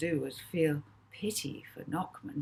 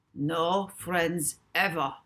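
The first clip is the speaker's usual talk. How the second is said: put-on slow, flat German accent; robotic German accent; 3 dB louder, much slower than usual. A narrator's reading. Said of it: "stated Notman robotically in his adopted German accent".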